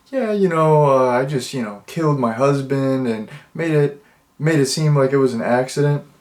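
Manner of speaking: mock casual, offhand, lightly tossed-off nonchalance. Retelling what a little old lady in a movie said: imitating a nonchalant remark. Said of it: "just nonchalantly, just in passing".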